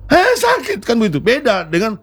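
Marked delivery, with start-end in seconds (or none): 0.1-0.8 much higher sharp cry of pain; pained yelp. Shown as a demonstration. Acting teacher shows the cry of a stepped-on foot. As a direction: yelp as if someone just stepped on your foot. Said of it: "Dengan teriak udah itu".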